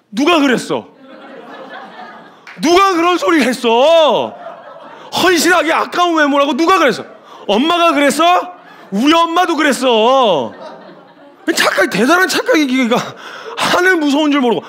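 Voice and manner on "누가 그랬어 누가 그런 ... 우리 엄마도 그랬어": mock questioning. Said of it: "그래서 정말 물어보고 싶었어요".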